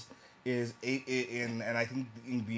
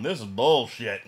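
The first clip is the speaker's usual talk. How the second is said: lightly imitated Southern father, louder and slower; a father's Southern-accent grumble, loud and slow; Southern dad scoffing at the TV, Southern accent; 7 dB louder than usual. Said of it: "I don't know why he has a southern accent".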